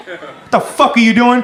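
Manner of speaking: a touch of a sergeant's anger; angry sergeant. Retold or imitated. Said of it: "he got really angry".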